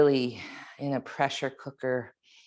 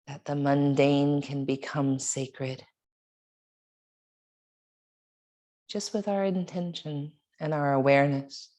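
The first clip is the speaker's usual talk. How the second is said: guided meditation. Real, not acted. Yoga teacher leading students in a reflection on breath and water, meditative. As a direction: guide them reflectively, leaving long pauses between phrases.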